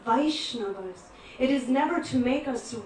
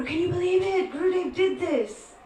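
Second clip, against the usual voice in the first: incredulous; 6 semitones higher than usual. Retold or imitated. Retells complaining to a visitor.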